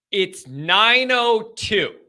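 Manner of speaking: slow, drawn-out exasperation at normal volume; exasperated disbelief. Real, not acted. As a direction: stretch out the time in disbelief. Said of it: "this is what I'm dealing with".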